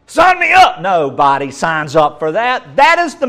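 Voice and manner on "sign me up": high, loud mock enthusiasm; sarcastic eagerness. Preacher mocking the job offer, sarcastic eager shout. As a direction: overeager sarcasm.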